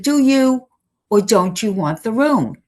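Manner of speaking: impatient landlady pressing a tenant; firm demand. Retold or imitated. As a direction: push him for a straight answer.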